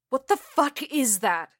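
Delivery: high, loud startled demand; alarmed. Acted. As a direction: react sharply to a noise in the dark. Startled by a thud in dark.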